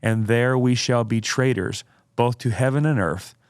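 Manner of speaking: slow, deliberate oratorical reading; dramatic quote reading. Acted. Host reads Spurgeon's quote to co-host, dramatic oratory. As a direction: read it out with weighty pauses.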